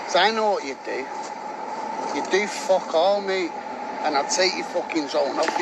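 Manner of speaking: angry. Real, not acted. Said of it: "why he's got so angry about it".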